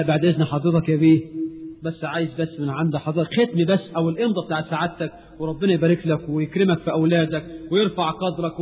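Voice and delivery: mock humble pleading. Citizen begs official for stamp.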